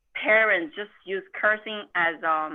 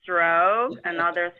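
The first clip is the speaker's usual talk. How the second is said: very slow, each stroke stretched out; drawn-out recital; 2 semitones lower, much slower than usual. Retold or imitated. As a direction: recite it like a Tai Chi count, imitating. Dad spelling curse as character strokes.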